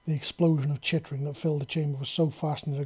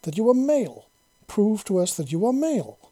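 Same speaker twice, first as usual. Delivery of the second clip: higher and louder, pleading insistence; exasperated, worried; 6 semitones higher, 6 dB louder than usual. A narrator's reading. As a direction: push it out, half fed up, half anxious. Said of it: "she exclaimed, her voice sounding exasperated and almost worried".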